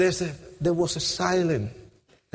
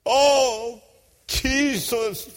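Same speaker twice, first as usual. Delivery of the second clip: raised, drawn-out plea; crying out; 3 semitones higher, much slower than usual. Retold or imitated. Broken gang member calling on Jesus, anguished cry. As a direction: call out to him in anguish. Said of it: "I start crying out".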